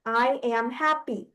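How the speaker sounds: "I am happy" in separated syllables. Shown as a demonstration. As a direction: count out "I am happy" one syllable at a time. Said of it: "that's four syllables".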